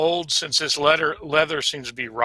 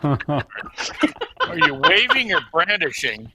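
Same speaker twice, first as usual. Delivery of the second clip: lizard folk voice; much slower than usual. Acted. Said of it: "That was a great lizard folk voice".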